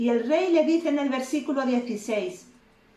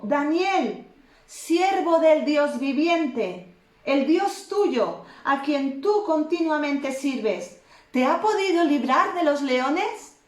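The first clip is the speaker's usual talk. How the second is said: raised, slow call to the pit; king calls into the lions' den, grieving and slow; calling out sadly; 4 semitones higher, slower than usual. Acted. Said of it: "llamó a voces a Daniel con voz triste".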